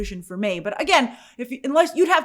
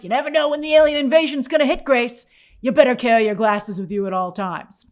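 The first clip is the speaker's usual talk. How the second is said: mock self-warning; 4 dB louder than usual. Self warning about glasses.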